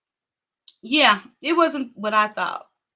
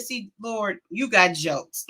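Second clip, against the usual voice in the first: laughing to the Lord; 4 semitones lower, 4 dB quieter, slower than usual. Retold or imitated. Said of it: "I said".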